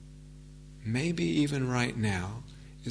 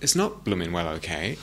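grumbling inner protest; 6 semitones lower than usual. Retold or imitated. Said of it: "even if it feels like".

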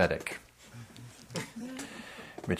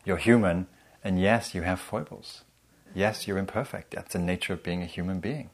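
accepting voice. Acted. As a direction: ease off and accept gently. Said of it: "As opposed to".

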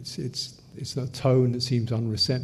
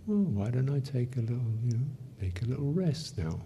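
softer, gentle self-suggestion; a soft, kindly nudge to rest; 5 dB quieter than usual. Shown as a demonstration. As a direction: ease into it softly, like offering yourself a rest. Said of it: "Soft tone".

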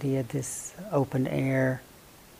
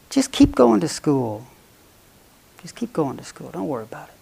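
mother chipmunk; 3 semitones higher, 5 dB louder than usual. Acted. Mother chipmunk urges baby on.

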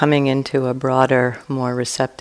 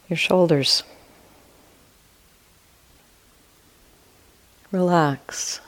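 guided meditation. Real, not acted. Teacher guiding listeners to relax and expand awareness, calm meditation voice. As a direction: ease listeners through it, leaving long silences between short phrases.

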